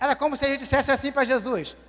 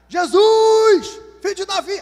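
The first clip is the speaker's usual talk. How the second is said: very loud, very slow, drawn-out shout; 6 semitones higher, 8 dB louder than usual. Retelling how the blind man Bartimeu cried out to Jesus: acting out a shout. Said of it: "Começou a gritar".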